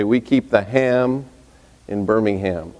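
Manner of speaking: slow, with "ham" drawn out; local saying. Shown as a demonstration. Alabama saying told to the congregation, slow, stressing "ham". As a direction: lean on "ham" in "Birmingham". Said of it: "interesting phrase there that they say".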